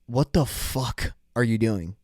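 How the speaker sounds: slow, lightly voiced cop in disbelief; baffled cop. Cop finding driver playing chess, mock bafflement. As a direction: stretch it out like a puzzled officer, mildly put on.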